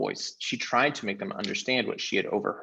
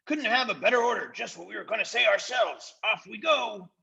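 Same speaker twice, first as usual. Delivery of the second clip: fawning followers; 12 semitones higher than usual. Acted. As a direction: agree with everything. Followers agreeing.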